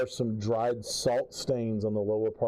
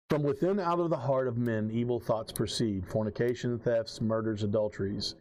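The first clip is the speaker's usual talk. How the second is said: measured King James reading voice; scripture reading. Acted. Keeper reads the marked verses to the players, measured. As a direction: read it out like a lay preacher.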